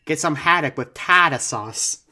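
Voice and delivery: hammed-up fake Bostonian; Boston accent. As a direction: put on Boston with dropped R's. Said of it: "the hardest possible Boston accent".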